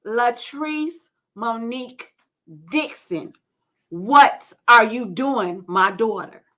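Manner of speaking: lightly voiced God, slow and measured; a hint of a stern divine summons. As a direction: call the full name slowly, spacing each part. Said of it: "it was the voice of God".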